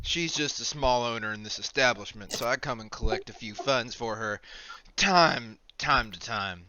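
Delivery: measured, easygoing innkeeper; a hint of a folksy proprietor; lightly voiced establishment owner. Explaining to a visitor who collects the funds, lightly voiced owner. Game master plays tavern owner.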